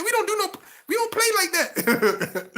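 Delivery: high-pitched Geechee impression; mock-stern Geechee, pitched right up; Geechee accent. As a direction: imitate the homeboy's Geechee warning, way up high. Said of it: "he had this accent called the Geechee".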